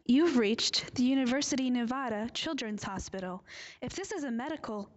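loud, formal phone recording; recorded greeting voice. Acted. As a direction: read it like a voicemail line.

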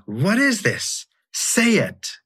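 awed, urgent question; astonished plea. Acted. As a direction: ask like you're overwhelmed by the vision. Rumi begs Love in poem.

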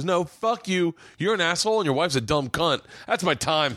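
mock Roy insult. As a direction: throw the insult with swagger. Roy insulting heckler, retold.

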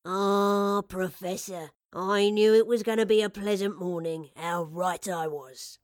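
put-on hearty old man greeting a favourite customer; loud welcome, slowing at the close; kindly elderly shopkeeper. Narrator voices old shopkeeper.

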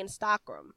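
"Instagram" said as in-STOCK-rum; French-style pronunciation. Retold or imitated. Coach quoting a French person she heard, French-style pronunciation. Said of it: "heard a French m-, person say".

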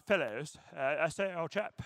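lightly put-on British gent; a touch of mock British politeness; British accent. Preacher joking about Jesus as an old chap, British accent. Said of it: "Jesus with a British accent".

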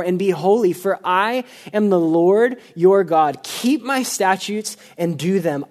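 measured, solemn Bible reading; scripture reading. Acted. Pastor reading Leviticus aloud, solemn and measured. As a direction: read the passage with weight to the congregation.

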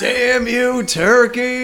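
mock curse. Joining the vengeance bit.

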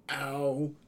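acted groan of pain; grunted. A narrator's reading. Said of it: "I grunted".

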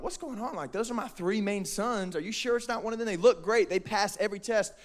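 hushed, mildly baffled father; puzzled protest. Acted. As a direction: softly question the decision in disbelief. Acts out Jesse's puzzled protest.

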